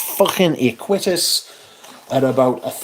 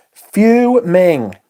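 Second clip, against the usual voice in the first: a loud, drawn-out fuming; 4 semitones higher, 5 dB louder than usual. Real, not acted. Vlogger tells viewers he is fuming about Google. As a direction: say it like you're boiling over. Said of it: "I am fuming".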